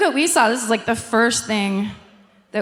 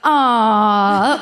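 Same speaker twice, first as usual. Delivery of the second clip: disappointed audience; 4 dB louder than usual. Retold or imitated. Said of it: "the audience is like".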